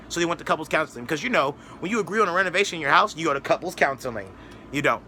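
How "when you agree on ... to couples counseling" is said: mock matter-of-fact explanation; sarcastic. Real, not acted. Mocking their reason for couples counseling, sarcastic. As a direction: state the absurd as if obvious. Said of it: "I'm being sarcastic".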